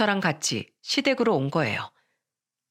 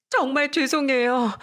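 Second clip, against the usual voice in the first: "정말 죄송해요" slow, higher, stressing 정말; kneeling, apologizing again, slower and higher; slow tearful apology; 6 semitones higher than usual. A narrator's reading. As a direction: drag out "정말 죄송해요" pleading. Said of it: "하염없이 울더니".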